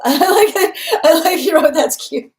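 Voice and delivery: high and loud, gushing with delight. Real, not acted. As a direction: squeal it, charmed. Delighted reaction to comments.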